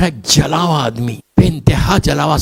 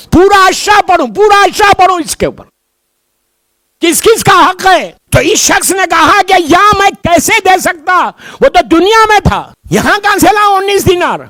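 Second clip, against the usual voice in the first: high, loud preaching voice; full preaching; 5 dB louder than usual. Acted. Preacher stirring the congregation about the bridge, high and loud.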